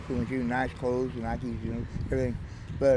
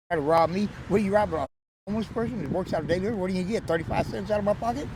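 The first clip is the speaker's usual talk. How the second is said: higher-pitched, incredulous plea to a robber; mock protest; 5 semitones higher than usual. Homeless man talking back to an imagined mugger, mock pleading. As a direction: play at bargaining with a mugger.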